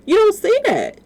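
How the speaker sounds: telling viewers, loud and high with disbelief; indignant. Real, not acted. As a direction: insist they look for themselves. Indignant claim about the mother.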